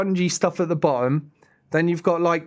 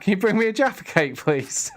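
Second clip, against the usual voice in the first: calling out; 5 semitones higher than usual. Real, not acted. Calling to Shell in another room.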